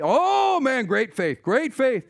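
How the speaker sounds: high, loud, eager insisting; frantic man swears he has faith; frantic assurance. Retold or imitated. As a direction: promise great faith in a panic. Falling man pleads with God.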